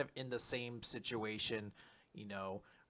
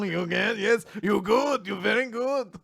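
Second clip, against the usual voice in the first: mock broken English; 8 semitones higher, 4 dB louder than usual. Mocking interviewer's broken praise.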